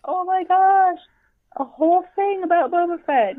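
thrilled rush of words; excited. Real, not acted. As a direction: gush over the surprise scene. Excited about post-credits scene.

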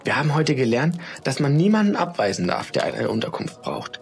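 put-on high, eager child explaining; lightly voiced girl, eager; earnest girl. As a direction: proudly teach mum the lesson. Julia explains to mother.

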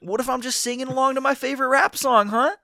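whiny indignant protest; wicked stepmother. Retold or imitated. Playing indignant racist coworker.

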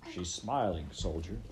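grated gravel voice. Acted. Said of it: "his voice like grated gravel".

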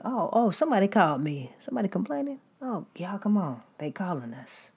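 a playful devil hearing his call; a hint of an excited Satan; mock Satan. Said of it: "For him to".

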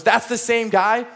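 the penny drops; dawning realization. Retold or imitated. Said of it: "he realizes".

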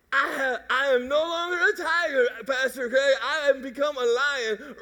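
lightly voiced new convert; proud new believer. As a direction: brag to Pastor Craig about it. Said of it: "new convert voiced to pastor".

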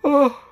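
loud, high yawning "oh"; real yawn. Real, not acted. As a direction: let a real yawn burst out. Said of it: "literally made me yawn for real".

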